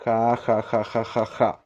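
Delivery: ja ja ja read out with a throaty h; Spanish laugh. Shown as a demonstration. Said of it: "a risada em espanhol". (risada em espanhol, ja ja ja)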